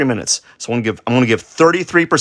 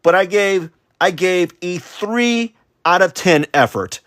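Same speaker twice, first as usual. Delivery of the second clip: higher, louder dramatic voice; mock self-pity; 8 semitones higher, 4 dB louder than usual. Artist mocking own hopes of followers, hammed-up higher lament. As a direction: wail it like a melodramatic dreamer, pitched up. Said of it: "That's why I said to myself".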